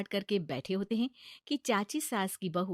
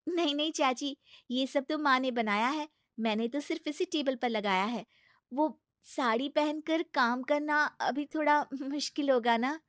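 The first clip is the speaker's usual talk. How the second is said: innocent bride; 5 semitones higher than usual. Acted. Sheena honest reply.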